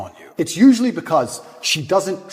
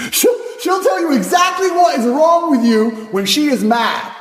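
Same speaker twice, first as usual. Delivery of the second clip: heated rant; 11 semitones higher, 4 dB louder than usual. Real, not acted. Ranting about angry women.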